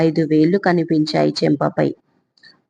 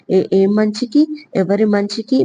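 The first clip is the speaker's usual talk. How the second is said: a touch of sobbing, words catching; lightly voiced girl hiccuping through tears; understated sobbing protest; mild sobbing; 3 semitones higher than usual. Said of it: "వెక్కిళ్ళు పెడుతూ మధ్య మధ్యలో అంది".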